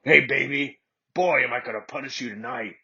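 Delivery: seductive. Acted. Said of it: "he said seductively".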